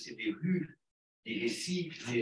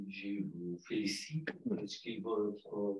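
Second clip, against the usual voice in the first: normal talking voice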